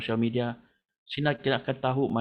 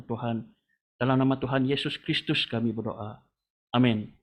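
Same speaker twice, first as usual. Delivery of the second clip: steady, earnest prayer cadence with a repeated Tuhan on each phrase; leading prayer; 2 semitones higher than usual. Acted. Pastor praying for the church over social media, earnest prayer. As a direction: pray aloud for the whole church. Leads congregation in spoken prayer.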